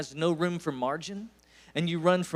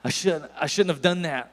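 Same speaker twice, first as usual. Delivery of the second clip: regretful groan. Retold or imitated. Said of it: "and I'm going".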